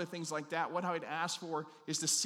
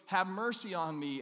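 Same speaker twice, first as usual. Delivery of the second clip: higher, insistent beggar's cry; louder retold plea; 4 semitones higher, 5 dB louder than usual. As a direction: retell a plea that refuses to be hushed. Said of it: "he got louder and louder".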